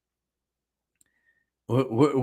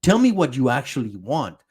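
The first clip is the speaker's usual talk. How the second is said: louder mock demand; mock angry Armin; 7 dB louder than usual. Streamer retelling Armin's punch, mock angry. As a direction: push him like an angry friend. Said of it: "Punches him, like".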